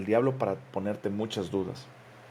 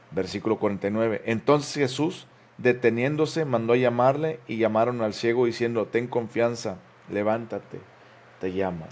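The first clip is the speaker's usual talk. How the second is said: scripture reading. Acted. Pastor reads Mark aloud to church, raised proclaiming voice. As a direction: proclaim the verses to the congregation.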